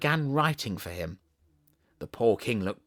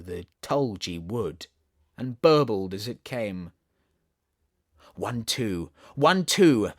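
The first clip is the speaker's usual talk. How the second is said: poem recital; slower than usual. Acted. Continues the poem.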